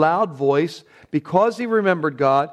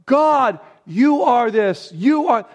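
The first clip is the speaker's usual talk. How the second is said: higher, louder, fervent call to God; crying out to God; 7 semitones higher, 5 dB louder than usual. Retold or imitated. David crying aloud his praise to God, higher and louder. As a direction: lift your voice up to God. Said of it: "he's lifting up his voice to God".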